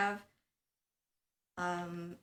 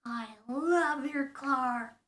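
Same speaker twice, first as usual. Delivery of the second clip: Tessa; 4 semitones higher, 5 dB louder than usual. Acted. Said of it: "doing the Tessa voice".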